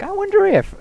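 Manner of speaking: high, curious "I wonder if"; mock high musing. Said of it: "I'd been like".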